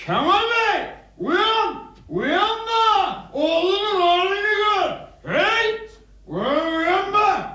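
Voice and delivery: high, challenging shouts; defiant calling out. Acted. Drunk son daring his father to wake, defiant shouting. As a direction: holler high to rouse a sleeper.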